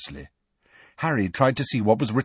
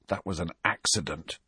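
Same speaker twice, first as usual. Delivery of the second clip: soft, low, miserable murmur; miserable whisper; 4 semitones lower, 7 dB quieter than usual. A narrator's reading. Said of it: "he whispered miserably".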